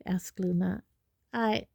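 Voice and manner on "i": halting, thrown, higher on "what"; falter, then question it in confusion; disconcerted. A narrator's reading. Harry baffled by Luna's question, disconcerted.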